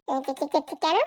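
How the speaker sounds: low-pitched stuttered question; stammering. Acted. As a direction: get stuck on the first syllable. Stammers asking why.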